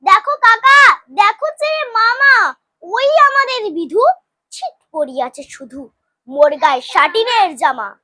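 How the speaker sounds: put-on child crowing over new finery; boastful calling out. A narrator's reading. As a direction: show off proudly to everyone. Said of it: "সবারে ডাকিয়া বলে".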